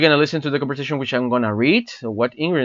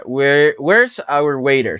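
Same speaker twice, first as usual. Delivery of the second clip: slow linking demo; slower than usual. Shown as a demonstration. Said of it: "So it's linking the word".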